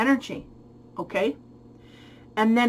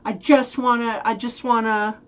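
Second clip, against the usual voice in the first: mock eager longing; 2 semitones higher, 5 dB louder than usual. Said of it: "sexual frenzy is kinda like".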